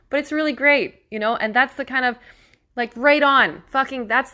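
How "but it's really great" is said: emotional. Real, not acted. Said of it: "Still getting emotional over here".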